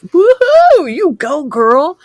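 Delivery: very high, loud cheering whoop. Real, not acted. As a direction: cheer her on with full delight. Cheering viewer's life change.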